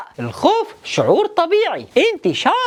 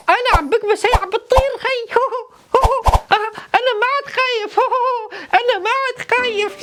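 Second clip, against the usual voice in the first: higher, laughing through the words; relieved laughing; 5 semitones higher than usual. Acted. Puppet laughing to the kids, no longer scared: relieved giggling. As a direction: giggle with relief as the fear melts.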